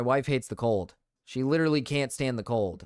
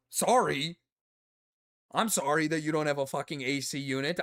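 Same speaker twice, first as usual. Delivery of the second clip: sarcastic apology; 5 semitones higher than usual. Acted. Sarcastic apology to British complainers.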